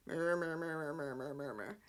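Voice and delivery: lightly done Vader rumble trailing off; Darth Vader mumble. Retold or imitated. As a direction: mumble like a muffled Darth Vader, dying away. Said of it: "you talk like Darth Vader".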